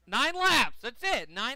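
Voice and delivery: shouted plea to hold on; urgent yelling. Real, not acted. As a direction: yell it like a frantic fan. Urging driver in final laps.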